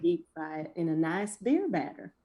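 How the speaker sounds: lazy Southern country drawl. Pretend. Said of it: "I'd like for you to say it in a country drawl".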